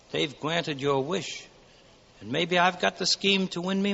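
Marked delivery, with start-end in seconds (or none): 0.1-1.4 tag only. Acted. Angel announces gently.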